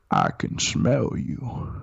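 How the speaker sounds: slow, husky whispered rumble; Morgan Freeman impression. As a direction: draw it out slowly, mostly in breath. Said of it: "it's like the Morgan Freeman voice".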